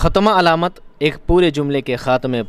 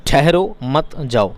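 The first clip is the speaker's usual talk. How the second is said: sentence read out; slower than usual. Shown as a demonstration. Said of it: "एक sentence लिखा है".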